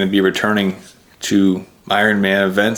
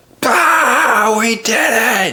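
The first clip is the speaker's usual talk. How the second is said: very high, very slow triumphant roar. Retelling seeing parents after the race finish: retelling a roar. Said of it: "just let out a roar".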